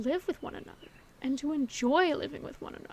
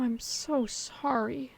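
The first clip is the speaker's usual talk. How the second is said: slow sympathy; much slower than usual. Acted. Comforting a scared friend.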